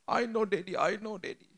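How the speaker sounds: put-on high, small child's voice; tearful child. A son hugging his father after crying, high and small. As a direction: answer like a sorry little boy. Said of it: "dia nangis".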